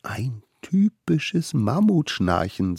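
slow hushed whisper. A narrator's reading. Smallest one whispering to the others. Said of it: "sagte der Allerkleinste".

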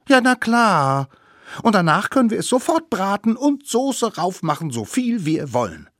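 high, excited voice, loud at first; eager little savage. Acted. Little savage assuring friend about roasting the mammoth, eager high voice.

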